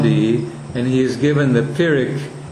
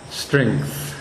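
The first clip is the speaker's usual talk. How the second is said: "Strength" with the E carried through to the end; lengthened vowel; 3 semitones lower, 4 dB quieter than usual. Shown as a demonstration. Teacher showing students the E carrying, drawn out. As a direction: let the E in "Strength" ride the consonants, drawn out. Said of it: "the E carries through".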